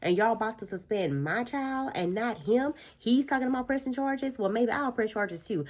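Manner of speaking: hammed-up outraged mother defending her child; a mother cutting up at the principal's office, mock outrage; indignant mama. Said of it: "she cut up so bad in that office".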